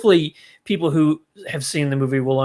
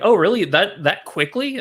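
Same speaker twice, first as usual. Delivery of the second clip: higher, skeptical oh, really; mock disbelief; 4 semitones higher than usual. Critic mocking the movie's rushed ending, incredulous. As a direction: doubt how fast it all wrapped up. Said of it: "I'm like".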